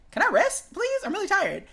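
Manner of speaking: mock plea. Musician answering pressure to keep practicing, pleading. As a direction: beg for a break, pitch jumping up.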